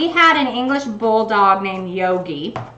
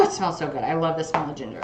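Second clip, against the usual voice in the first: quiet and dreamy; 8 semitones lower, 11 dB quieter, faster than usual. Real, not acted. Savoring the ginger smell.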